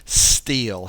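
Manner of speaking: "still" set apart and drawn out; single out "still" with weight; stress on still. Shown as a demonstration. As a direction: isolate the word "still" for emphasis. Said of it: "notice that wood, word".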